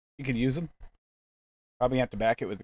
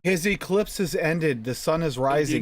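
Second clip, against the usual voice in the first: dramatic announcer; slower than usual. Pretend. Slow dramatic proclamation.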